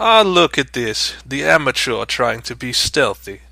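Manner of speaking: amused chuckling through the words. Voicing an unseen figure who sees through a player's hiding: chuckling while speaking. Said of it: "you hear kind of a chuckle".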